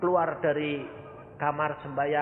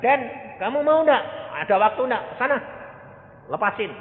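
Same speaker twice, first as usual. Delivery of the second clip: eager urging; 10 semitones higher, 7 dB louder than usual. Retold or imitated. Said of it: "Saya bilang".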